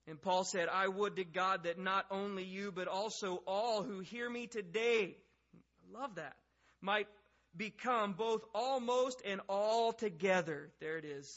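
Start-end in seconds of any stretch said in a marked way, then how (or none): 0.7-5.2 louder, impassioned reply read aloud; emphatic scripture reading. Acted. Paul answering Agrippa before all who hear, emphatic declaiming. 6.8-10.7 loud, slow and raised in pitch; emphatic scripture reading. Acted. Paul pleading with Agrippa and all listeners, slow emphatic declaiming. Reads Paul's impassioned plea.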